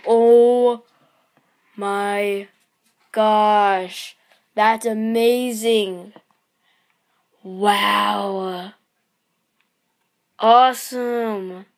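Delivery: loud, drawn-out thrilled gasp; excited. Real, not acted. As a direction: burst out in real delight. Thrilled at the card.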